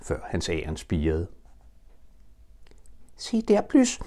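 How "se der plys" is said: high, startled little call; a timid piglet suddenly spots something; sudden alert Piglet. Acted. Piglet points out the tree to Pooh, high and startled. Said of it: "sagde grislingen pludselig".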